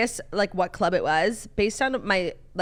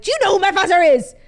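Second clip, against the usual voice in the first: high, loud entitled heir voice; shrill-free mock tantrum at the door; imitating a drunk rich heir; 10 semitones higher, 8 dB louder than usual. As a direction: play the spoiled son demanding entry. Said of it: "the guy was like".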